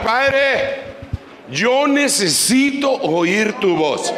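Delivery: slow, earnest prayer line for the church to copy; a slow, pleading prayer to show the church; model prayer. Shown as a demonstration. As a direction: pray it slowly, as an example. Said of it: "empecemos a orar".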